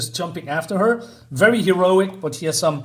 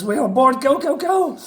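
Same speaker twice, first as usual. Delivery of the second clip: higher, rising hurry call; urgent go; 9 semitones higher, 3 dB louder than usual. Acted. Frog urging the crew to flee, excited call. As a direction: push them to go, go, go.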